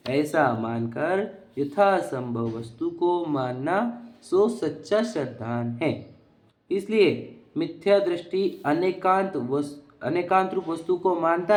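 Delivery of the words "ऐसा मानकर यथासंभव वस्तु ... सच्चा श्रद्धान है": slowly, word by word; slow deliberate reread. Shown as a demonstration. Teacher rereading the text for students, slowly and deliberately. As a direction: spell out the scripture line slowly. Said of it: "दो, कैसा?".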